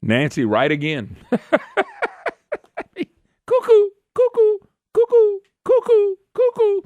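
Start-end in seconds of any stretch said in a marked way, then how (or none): 3.5-6.8 high loud sing-song cuckoo calls; cuckoo clock mockery. Host mocks protesters, loud high cuckoo clock calls. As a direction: chirp cuckoo like a clock to call them crazy.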